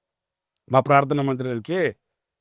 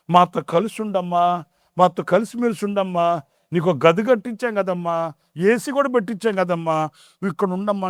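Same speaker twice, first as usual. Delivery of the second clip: gentle pleading; 4 semitones higher than usual. Retold or imitated. Sons pleading with mother.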